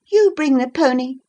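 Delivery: high, sharp command; exclaimed order. A narrator's reading. To the servant woman, a high sharp order. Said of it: "she exclaimed".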